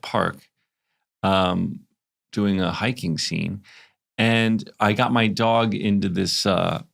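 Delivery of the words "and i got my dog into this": slow New Jersey vowels on dog; Jersey accent. Shown as a demonstration. Host sharing her dog story, slipping into New Jersey accent. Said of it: "that's my Jersey accent".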